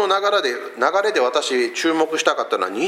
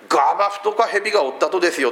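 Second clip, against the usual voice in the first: Kurume dialect; faster than usual. Retold or imitated. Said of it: "どこの訛りだ".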